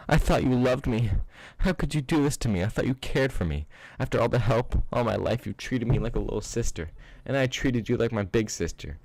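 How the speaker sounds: high, tearful pleading; crying and shouting. Acted. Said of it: "Her throat hurt from crying and shouting".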